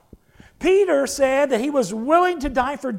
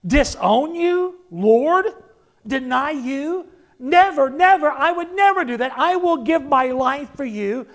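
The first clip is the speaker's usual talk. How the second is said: incredulous protest; 3 semitones higher than usual. Acted. Peter can't believe it, voiced.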